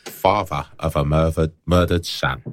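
lightly put-on Cockney hero; mock Cockney accent. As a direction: intone it in joke Cockney. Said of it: "got a Cockney Spanish dude".

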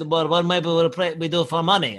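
imitated Russian fighter accent. Russian proposes a bet to the comic, Russian accent. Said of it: "that is an exact accent".

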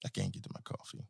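whispering a complaint about the coffee. Real, not acted. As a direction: breathe it out in a hush. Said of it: "repeated as whisper".

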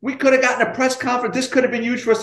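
imitating a scolding boss, pitched high; reading riot act. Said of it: "starts reading me the riot act".

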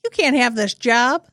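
slow, high, loud casting agent; slow mocking casting agent. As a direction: drawl it out like a smug casting director. Playing casting agent, mock.

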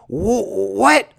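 surprised. Retold or imitated. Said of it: "everybody is like".

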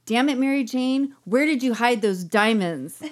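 exasperated demand. Acted. Dawn at Mary Jane's casket, mock-angry demand. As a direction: demand it with theatrical frustration.

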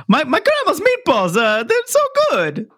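hammed-up bad stand-up joke; bad comedian. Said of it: "I can't do the jokes".

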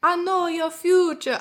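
high, slow mystic fortune teller. Retold or imitated. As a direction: play the TV psychic. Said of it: "she was like".

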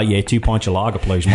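lightly put-on English accent, barely off the normal voice; weak English accent. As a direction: order a pint like a lad faking an English accent. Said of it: "one lad was literally in his normal voice".

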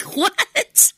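high, baffled what with a rise. Retold or imitated. Cohost acting her confused reaction, high and baffled. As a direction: play it totally confused. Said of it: "And I'd be like".

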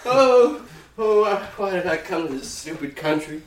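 a lost star moaning about the woods, mildly put on; Michael Jordan lament. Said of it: "snapped back to Michael Jordan running".

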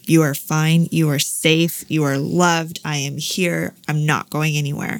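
retold steady, measured comfort in short phrases; firm reassurance. Mother reassuring her frightened son before anesthesia, firm reassurance.

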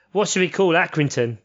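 lightly voiced official asking around; mock club official. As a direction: play a clueless club official calling to Stanley. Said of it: "All the other teams are going like".

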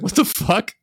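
high, loud laughing "what the"; laughing disbelief. Real, not acted. Startled by kid in bushes.

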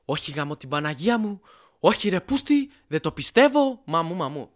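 imitating a friend's cursing fit, voice jumping up; mock panicked swearing outburst; freaking out, cursing. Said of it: "βαράει μία φρίκη ο Σούρας και αρχίζει τις Παναγίες".

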